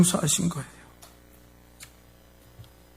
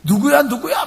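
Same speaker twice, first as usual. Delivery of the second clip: demanding; slower than usual. Retold or imitated. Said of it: "막 따지니까".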